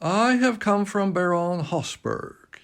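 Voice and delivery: put-on old gentleman with a light French accent; polite bow in a faint French accent; a courteous French-accented greeting, lightly done; slight French accent. A narrator's reading. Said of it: "in a slight French accent".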